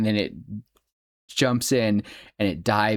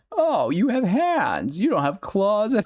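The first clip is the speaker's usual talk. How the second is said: put-on gleeful creepy kids; 10 semitones higher, slower than usual. Oogie's minions inspect Santa.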